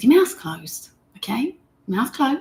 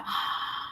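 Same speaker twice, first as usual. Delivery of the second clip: open-mouth sigh; 12 dB quieter than usual. Shown as a demonstration. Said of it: "Mouth breathing, it's like".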